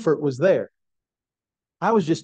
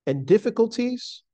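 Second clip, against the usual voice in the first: measured, emphatic devotional reading; formal quotation reading. Acted. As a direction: read it out solemnly, lifting the key words. Reads a quotation aloud.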